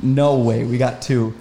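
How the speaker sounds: excited. Retold or imitated. Retold shout finding banded goose.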